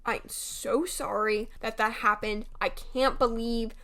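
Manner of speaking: quiet, slow retold apology; a hushed, sincere apology; soft apology. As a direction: say it softly, sorry and shaken.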